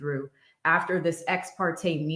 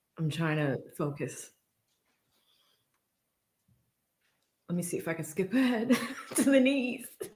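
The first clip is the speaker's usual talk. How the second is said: giggling, laughing through the words; 4 dB quieter than usual. Watching a courtroom cross-examination, unable to stop laughing: laughing while talking. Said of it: "I can't stop laughing".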